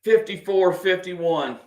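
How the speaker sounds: slow, breathless whispered score. Real, not acted. Nervous fan whispering the score in a close game.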